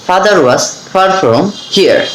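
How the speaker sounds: "Father was far from here" drawn out very slowly; slow practice sentence. Shown as a demonstration. Teacher reads a practice sentence very slowly for learners. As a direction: savour each f slowly. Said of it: "এভাবে কিন্তু আপনারা এগুলো বাসায় practice করবেন".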